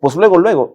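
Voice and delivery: "luego, luego" pitched high and loud; mock insistent luego. To his employee, insisting: luego is luego, emphatic. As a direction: stress "luego" twice, firmly. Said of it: "en México luego es ya".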